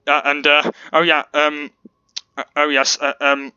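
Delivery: burping between words; burping after fizzy drink. Real, not acted. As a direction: talk through small burps. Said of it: "sorry, I'm burping a lot".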